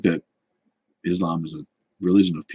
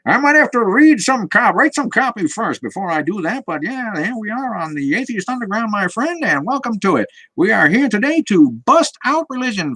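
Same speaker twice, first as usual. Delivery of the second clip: put-on much higher, old-timey announcer voice, loud and showy; 1920s radio DJ; 4 dB louder than usual. Host hams up an old-timey radio DJ for chat, high announcer voice. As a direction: crank up a high, brassy old-radio host pitch and sell it.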